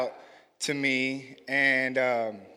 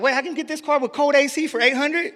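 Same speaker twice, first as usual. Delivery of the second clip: surprised disbelief; 10 semitones higher, 5 dB louder than usual. Retold or imitated. Disbelief at cheap car price.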